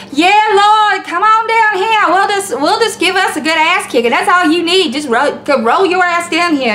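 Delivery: mock Ebonics, pitched well up; put-on "ghetto" speech. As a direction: imitate someone putting on exaggerated Ebonics, high-pitched. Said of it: "you talking like this".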